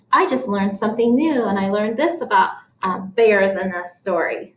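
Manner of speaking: quick, chatty thinking aloud. Shown as a demonstration. Teacher models learning from the book, thinking voice. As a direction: share a passing thought as you read. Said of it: "So that's my thinking voice".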